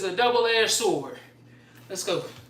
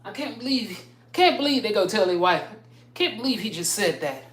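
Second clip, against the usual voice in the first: mock shocked guy; 3 semitones higher than usual. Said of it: "That's how they talk".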